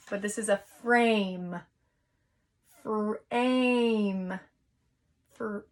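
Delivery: "Frame" said slowly, long A drawn out; modelling the word. Shown as a demonstration. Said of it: "What long vowel do you hear".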